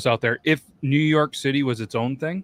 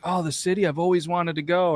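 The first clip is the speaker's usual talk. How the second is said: tags: gushing outsiders; 6 semitones higher than usual. Retold or imitated. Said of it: "and they're like".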